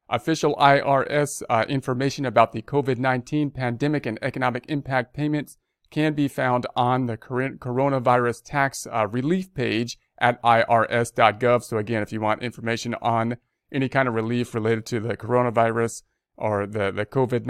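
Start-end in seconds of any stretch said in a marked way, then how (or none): 0.1-11.6 measured read-aloud of an official notice; news read. Real, not acted. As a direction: read the bulletin out formally. Reads the notice.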